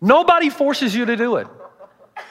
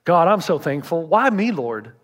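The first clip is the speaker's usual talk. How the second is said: lightly voiced grateful prayer; understated humble believer thanking God. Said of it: "will you be humble and say".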